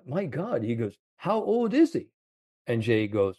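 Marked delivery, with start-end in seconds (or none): 0.1-2.1 much higher, amazed Scottish caddy. Retold or imitated. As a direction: squeak it out like the stunned caddy. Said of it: "the way he said it".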